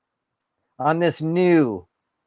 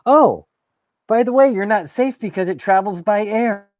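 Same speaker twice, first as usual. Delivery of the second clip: mocking the CDC; 6 semitones higher than usual. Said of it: "what does the C D C say".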